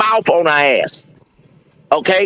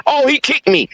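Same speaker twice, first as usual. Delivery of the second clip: lightly imitated higher-pitched protest; mock complaint; 5 semitones higher than usual. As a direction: play the wronged victim a little, pitched up. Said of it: "if you kick your leg out".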